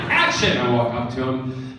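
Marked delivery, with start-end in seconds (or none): 0.1-0.6 a light call of action; mild film-set call, not shouted; director's call. Retold or imitated. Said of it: "So, first take".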